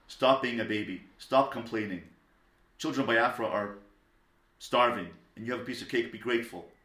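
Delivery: mock-impatient lecture to a whining child; scolding. Wrong way, scolding an upset child.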